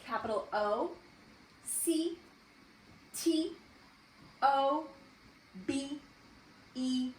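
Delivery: letter by letter with long pauses; spelling aloud. Shown as a demonstration. Teacher spelling October for first graders, letter by letter. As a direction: call out each letter separately. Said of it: "let's spell October".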